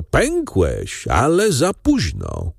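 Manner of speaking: jeering taunt, slowing at the end; scornful call; mocking call. A narrator's reading. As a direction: gloat at the broken branch. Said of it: "zawołał szyderczo".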